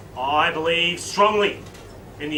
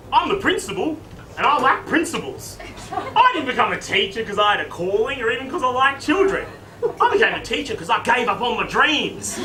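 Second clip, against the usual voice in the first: higher-pitched outburst of bitter honesty; exasperated confession; 3 semitones higher than usual. Acted. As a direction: blurt out the ugly truth to the students. Ignored principal blurts out truth.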